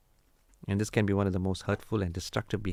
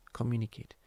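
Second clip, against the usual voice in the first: softer repeat; 6 dB quieter than usual. Shown as a demonstration.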